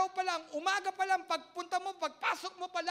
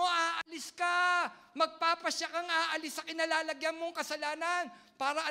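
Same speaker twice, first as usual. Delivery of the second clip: drawn-out, firm urging; slow each word and press it home; slow emphatic preaching; 3 dB louder than usual. Acted. Pastor urging the congregation to leave sin, slow and forceful.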